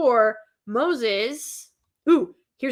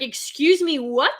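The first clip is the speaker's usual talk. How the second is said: retold surprise; 4 semitones higher, 4 dB louder than usual. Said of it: "And I was like".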